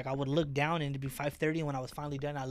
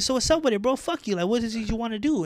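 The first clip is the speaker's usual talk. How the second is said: much higher and louder, picking a fight; aggressive; 8 semitones higher, 8 dB louder than usual. Retold or imitated. Challenging the customer to fight, loud and high. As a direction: get in his face.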